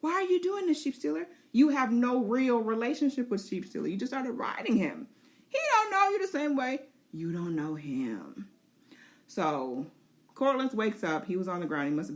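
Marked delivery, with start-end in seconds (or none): 0.0-8.5 high, urgent pleading with the dragon; high frantic rider pleading. Pretend. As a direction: stop the dragon from attacking friends. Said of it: "she's trying to tell him".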